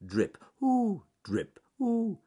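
drips alternating with high, loud oohs; Ernest Fluffy Rabbit. Acted. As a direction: hop between drip and squeaky ooh. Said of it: "as he hopped along the path".

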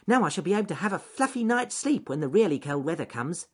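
high, loud, contented little rabbit; cosy anticipation in a high rabbit voice; Ernest Fluffy Rabbit. Acted. Rabbit looking forward to winter sleep, high and pleased.

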